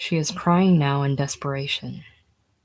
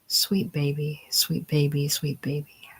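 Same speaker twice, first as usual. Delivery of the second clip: put-on soft, loving coo to a baby; hushed, affectionate repetition; loving endearment; 4 dB quieter than usual. A narrator's reading. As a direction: soothe the baby tenderly. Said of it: "a flush of love".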